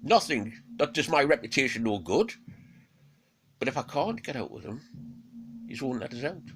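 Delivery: a clever beast seeing the trap; wary Fenrir. Acted. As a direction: Fenrir reasons with Odin, high and loud. Fenrir reasoning.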